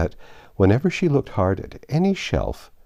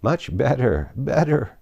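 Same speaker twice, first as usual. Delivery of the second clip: rising into a squeak; 4 semitones higher than usual. Acted. Queen answering Alice, climbing to a squeak. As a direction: voice climbing higher each word. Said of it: "her voice rising into a squeak".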